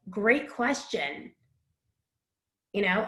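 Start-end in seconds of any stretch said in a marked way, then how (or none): 0.1-1.3 slowed right down, softer, mulling it; buy a moment, drawn out; slow, thinking it over. Shown as a demonstration. Coaching interviewees, a slow thoughtful reply. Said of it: "think for a second and be like".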